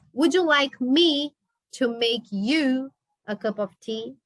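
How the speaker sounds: teacher repeating the question slowly for students; slow model reading. Shown as a demonstration. Teacher repeats it slowly so the class can follow.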